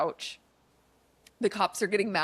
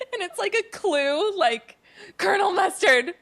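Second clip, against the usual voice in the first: laughing; 12 semitones higher, 6 dB louder than usual. Real, not acted. Joking about the clue reveal.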